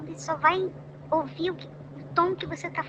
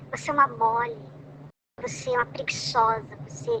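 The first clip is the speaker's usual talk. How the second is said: mild scolding tone. Retold or imitated. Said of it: "Nunca falou assim".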